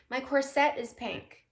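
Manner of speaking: each "corset" said cor-SET; "corset" stressed on SET; stress on second syllable. Shown as a demonstration. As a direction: put the weight on the end of "corset". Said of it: "emphasis or the accent on the second syllable".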